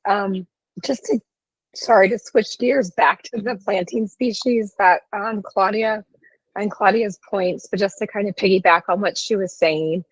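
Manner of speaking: hoarse, strained voice; losing voice. Real, not acted. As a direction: push words through a failing voice. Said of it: "I'm losing my voice".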